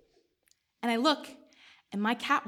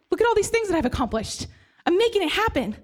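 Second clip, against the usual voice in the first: manic bragging; 6 semitones higher, faster than usual. Retold or imitated. Insisting to doctor she's fine.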